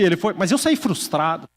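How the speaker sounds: usual speaking voice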